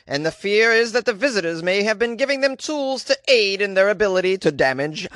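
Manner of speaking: UK news voice. Acted. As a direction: read it like a BBC anchor. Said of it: "is this a good U K news voice?".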